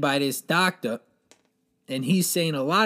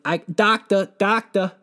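high, loud panicked calls for the doctor; frantic shout for the doctor; panicked calling; 6 semitones higher, 5 dB louder than usual. Retold or imitated. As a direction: yell for help in a panic. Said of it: "I'm freaking out".

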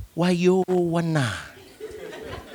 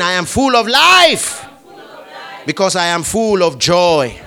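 louder declaration; 3 dB louder than usual. Shown as a demonstration. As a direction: raise it up and declare it. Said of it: "Say it again".

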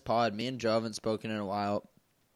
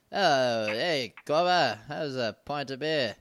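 mock English accent; 4 dB louder, slower than usual. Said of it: "your best shot at a English accent".

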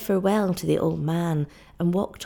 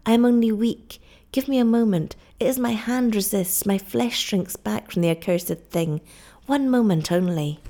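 anguished cry; 3 semitones higher than usual. Acted. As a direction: cry out in desperate protest. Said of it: "cried Kukua".

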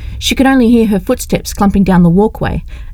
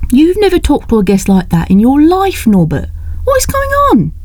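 put-on higher, pleading young woman; young woman's upset voice; 8 semitones higher than usual. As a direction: press them for answers, voice rising. Leslie confronts her guardians.

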